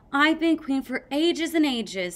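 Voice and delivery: hammed-up royal boast; mock queen boast. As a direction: puff yourself up as queen. Sunny playing queen.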